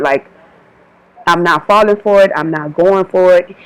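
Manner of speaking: imitating God refusing to be fooled; mock stern God. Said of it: "I'm gonna just say it like this".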